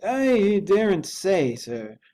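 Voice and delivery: high, loud, fearful servant voice; a scared manservant, high and loud; frightened butler. A narrator's reading. Poole's frightened voice.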